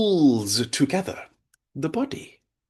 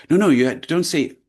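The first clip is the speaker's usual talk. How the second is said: loud imitated scolding; imitating a reproving teacher; teacher telling off; 4 semitones higher, 6 dB louder than usual. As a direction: correct a child firmly, like a schoolteacher. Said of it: "she would tell them off".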